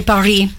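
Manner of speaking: PARIS said the French way, silent final S; French pronunciation. Real, not acted. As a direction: say Paris in French, stress on the last syllable. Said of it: "Hai fatto bene anche Paris".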